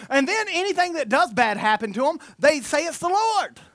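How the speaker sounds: ordinary talk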